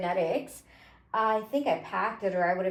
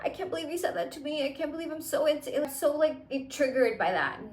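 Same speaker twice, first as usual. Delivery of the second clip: mock crying; 3 semitones higher, 4 dB quieter than usual. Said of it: "I'ma start crying and be like".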